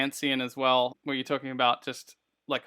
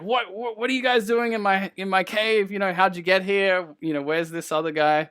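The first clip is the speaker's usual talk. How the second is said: startled dwarf; 6 semitones higher, 4 dB louder than usual. Acted. Dwarf voiced waking in bathtub.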